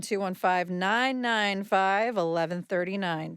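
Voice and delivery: slow, careful phone-number read; slow and clear. Acted. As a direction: spell the number out slowly for listeners. Repeats number slowly then fast.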